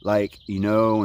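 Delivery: slow, drawn-out surfer-dude "Like, you know"; surfer talk. Shown as a demonstration. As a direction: lay back into the surfer drawl on "Like, you know". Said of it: "when I say stuff like".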